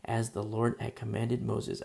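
steady, projected Bible reading; emphatic read-aloud of scripture. Real, not acted. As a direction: read the verse out to the congregation. Reads scripture aloud to congregation.

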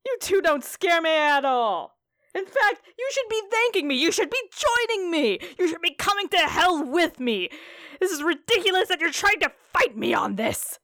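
hammy stage actor. Acted. Dad taunts the party.

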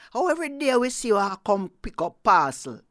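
fast, loud, amazed question; loud exclaiming. Acted. Neighbour marvels at Snake's parcels, fast and loud. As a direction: blurt it out in amazement.

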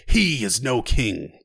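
slow, emphatic, strained declaration; cried out. Acted. Knight denouncing Joffrey before the court, slow and strained. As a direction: drag out every word like a curse. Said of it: "he cried".

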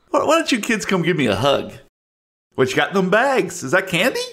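put-on high, fast, wheedling old-man voice; creepy old creature. Creature asks the kids for a hug, high and wheedling. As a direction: coax them quickly in a high voice.

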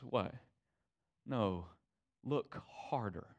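quiet mock Rafiki urging look harder; Rafiki's wise urging. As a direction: hush it like an old sage prodding. Rafiki quoted urging Simba.

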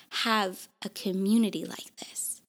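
near tears, voice dropping to a whisper; holding back tears on the words; choked up. Real, not acted. Podcaster to listeners, fighting back tears. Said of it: "I feel like I'm gonna cry".

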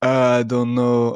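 lightly voiced German man; a hint of German-accented English; imitated German accent. German man answers the boy, light German accent. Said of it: "And Opek was like".

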